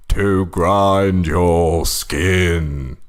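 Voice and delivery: slow, deliberate sinister puppet line; dragged-out puppet menace; creepy villain puppet. Acted. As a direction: drag each word out like a menacing marionette. Villain puppet's reply, retold creepily.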